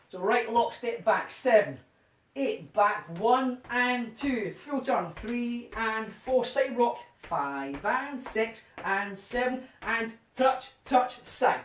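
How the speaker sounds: slow rhythmic count calling; dance count calling. Shown as a demonstration. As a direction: call the steps to the beat.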